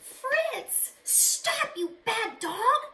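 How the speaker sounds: put-on boy calling his dog to stop; boy's cry. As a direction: yell after a runaway dog. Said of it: "cried Alan".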